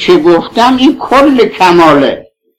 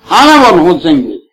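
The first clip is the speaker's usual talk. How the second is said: breaking into tears; 3 semitones lower, faster than usual. Real, not acted. God's call over Husayn, weeping.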